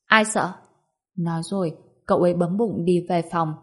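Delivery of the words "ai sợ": mildly defiant retort; a touch of scoffing defiance; huffy denial. Acted. Boy huffs at his little cousin's question, mildly defiant retort. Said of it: "đã hừ một tiếng".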